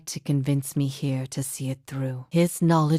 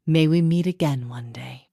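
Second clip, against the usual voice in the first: whispered farewell. Acted. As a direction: breathe the farewell out gently. Quiet farewell to a friend.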